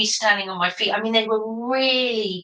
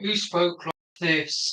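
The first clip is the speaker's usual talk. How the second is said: slow, lower, unhurried bear voice; slow calming Bear voice; 4 semitones lower, slower than usual. Acted. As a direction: drag every word like a sleepy bear. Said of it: "He just had a slow speech that was calming".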